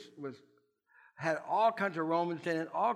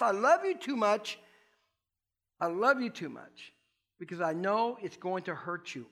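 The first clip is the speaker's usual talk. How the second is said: God's firm warning; 2 semitones higher than usual. Retold or imitated. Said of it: "He's gotta do something that goes".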